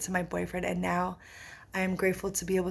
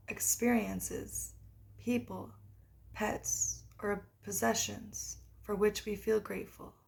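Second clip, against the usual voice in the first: guided meditation. Acted. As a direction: read a guided practice with unhurried pauses. Reads guided meditation aloud.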